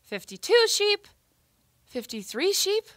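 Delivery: slow, sleepy counting in bed; drowsy counting sheep. Acted. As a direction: count sheep slowly, half awake.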